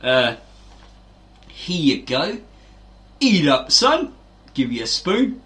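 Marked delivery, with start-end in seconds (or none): 0.0-4.1 mock parent. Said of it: "they'll go".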